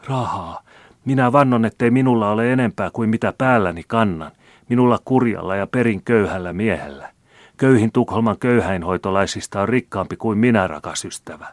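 anguished protest. A narrator's reading. Old man swears to the maid he is poor, anguished. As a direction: protest poverty in distress. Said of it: "virkkoi taas Larsson ilmeisesti tuskissaan".

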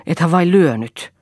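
alarmed question. A narrator's reading. Lea asks her husband whether he hit the crying boy, alarmed. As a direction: blurt it out anxiously. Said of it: "kysyi hän hädissään".

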